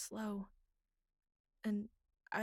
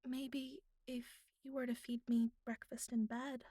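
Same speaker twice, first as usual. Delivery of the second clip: a coy, half-teasing ask with a light lift on me; coy request. Acted. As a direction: slip it in playfully, like a hint. Coy request in bed scene.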